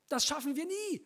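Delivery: high, exhausted gasping line; panting. Acted. Tired man groans about the endless dirt, panting. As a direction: puff it out, worn out. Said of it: "keuchte der Mann".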